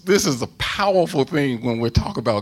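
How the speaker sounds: loud, high fervent preaching; fiery pulpit emphasis; preaching at full force. Real, not acted. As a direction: drive the point home to the congregation. Preacher building to a climax.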